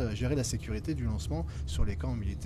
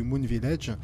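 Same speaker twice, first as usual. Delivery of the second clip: put-on Moon Village in a light English accent; playful English accent on Moon Village; slower than usual. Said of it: "magnifique accent anglais".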